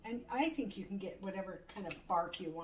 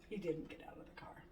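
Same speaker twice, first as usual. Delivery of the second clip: whisper; 4 semitones lower, 5 dB quieter than usual. Real, not acted. Whispered aside.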